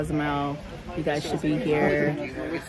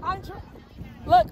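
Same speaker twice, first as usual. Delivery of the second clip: much higher, louder, slow laughing plea; laughing protest; 13 semitones higher, 6 dB louder than usual. Real, not acted. Vlogger laughing at teasing friends, loud high protest. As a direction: beg them to stop through laughter. Friends tease her on camera.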